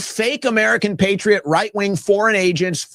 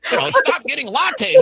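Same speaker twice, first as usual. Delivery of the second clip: high, preachy sneer, the "you" leaned on; mock condescending advice; 6 semitones higher than usual. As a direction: parody smug lecturers. Mocking condescending advice-givers.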